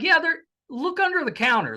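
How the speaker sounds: put-on high, lightly done New York cook's accent. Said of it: "in a very New York accent".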